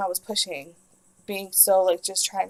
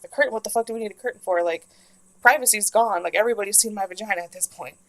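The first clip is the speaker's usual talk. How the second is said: exasperated; 5 dB louder, faster than usual. Retold or imitated. Outraged at the curtain.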